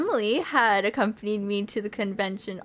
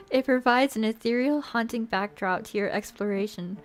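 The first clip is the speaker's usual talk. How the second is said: story narration. Acted. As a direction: draw the listener into the shoreside scene. Rereads the narration after laughing.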